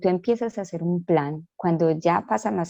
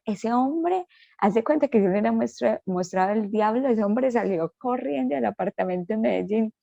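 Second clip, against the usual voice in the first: excited retelling; 4 semitones higher than usual. Real, not acted. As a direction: pitch jumps up high as she tells it. Relato exaltado de la huida. (relato exaltado, con la voz bien aguda)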